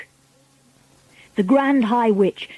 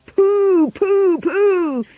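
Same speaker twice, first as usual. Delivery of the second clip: high repeated crowd cries; disgusted cry; 11 semitones higher, 3 dB louder, much slower than usual. A narrator's reading. Witches agreeing children stink, high disgusted cries. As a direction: cry out in drawn-out revulsion. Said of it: "cried the audience".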